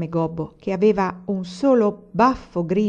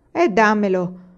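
outburst; 2 semitones higher, 4 dB louder, slower than usual. A narrator's reading. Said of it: "proruppe alfine".

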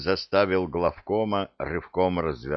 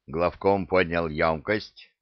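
ordinary delivery, nothing marked

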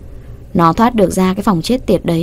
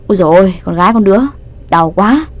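mock pain; faster than usual. Teacher pretends the kick hurt, hammed-up yelp. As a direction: fake being hurt, rolling about. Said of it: "giả vờ lăn lộn ôm cái chân".

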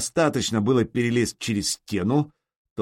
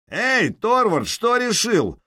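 much higher, slow call from below; 11 semitones higher, 4 dB louder, slower than usual. A narrator's reading. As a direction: call up to the wall. Calling up from below. (окликнуть снизу)

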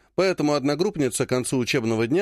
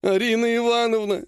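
whining; 6 semitones higher than usual. Acted. Healer Ogonkov whining to his clan head. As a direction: whine her name like a scolded boy. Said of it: "ныл он".

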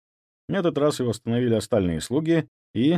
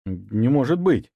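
slow, squeezed-out disbelief; stunned; slower than usual. Acted. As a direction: force the words out in shock. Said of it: "выдавил Ваня ошарашенно". (ошарашенно, медленно)

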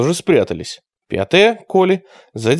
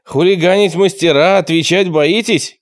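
higher-pitched scolding; angry rebuke; 5 semitones higher than usual. A narrator's reading. Leader rebuking captured hooligans, angry. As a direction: scold with a touch of anger. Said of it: "гневно спросил Тимур".

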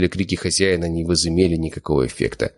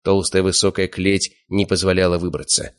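usual speaking voice

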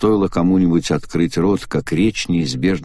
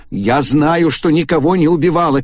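high shout, much higher; 9 semitones higher, 4 dB louder than usual. A narrator's reading. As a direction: cry it out, trembling with rage. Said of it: "кричала Агата". (Агата кричит на членов клуба)

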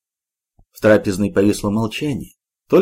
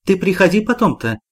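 worried; 8 semitones higher than usual. A narrator's reading. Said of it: "забеспокоилась Вера Ивановна".

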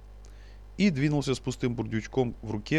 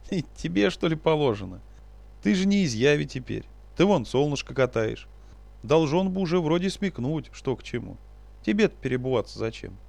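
sly teasing trickster spirit; 4 semitones higher than usual. Acted. Леший хихикнул.

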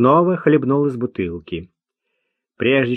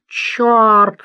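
высокий громкий выкрик; выкрикнуть ругательство; 10 semitones higher, 4 dB louder than usual. A narrator's reading. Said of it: "снова выкрикнул". (громкий выкрик бродяги)

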